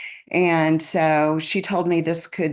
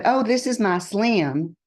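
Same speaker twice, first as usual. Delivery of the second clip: lightly imitated Southern sweetness, higher pitched; sweet Southern voice; 4 semitones higher than usual. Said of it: "in her sweet little Southern voice".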